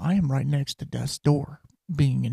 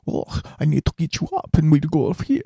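put-on brisk comic Eastern European accent; playfully put-on Ukrainian-sounding accent; Russian or Ukrainian accent; 3 semitones higher, faster than usual. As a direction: imitate a lively Russian nurse's accent. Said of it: "I'm doing accents to be funny".

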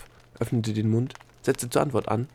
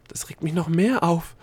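raised pitch, flustered outburst; agitated; 8 semitones higher, 4 dB louder than usual. Acted. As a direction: burst out, more worked up. Delia panicking over forgotten answer.

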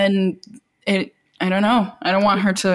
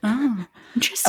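calm crisis counselor; 4 dB quieter than usual. Acted. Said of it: "This is my therapist's voice".

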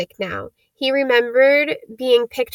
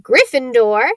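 shout; 4 dB louder than usual. Acted. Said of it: "When it finally shouted".

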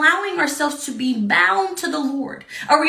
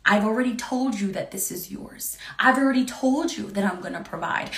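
tender reassurance; 3 semitones lower than usual. Retold or imitated. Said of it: "God's saying".

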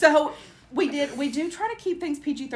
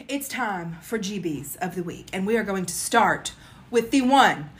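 building grand announcer intro; 2 semitones lower, slower than usual. Acted. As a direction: announce her like royalty. Announces segment host-style.

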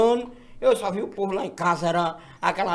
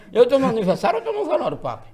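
laughing; 3 semitones higher than usual. Retold or imitated. Laughing retelling of birthday confusion.

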